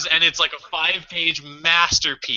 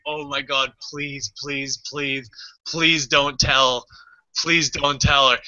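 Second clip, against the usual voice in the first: desperate pleading; slower than usual. Retold or imitated. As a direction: plead slowly, as if begging inwardly. Silently begging teacher not to tell.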